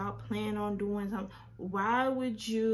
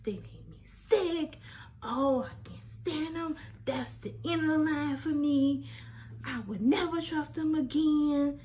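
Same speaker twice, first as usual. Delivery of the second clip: higher, lightly mocking his self-righteous answer; mocking his reply; 5 semitones higher than usual. Mocking the boyfriend's answer about liars, higher. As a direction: parrot his pious lie, sing-song. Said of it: "He was like".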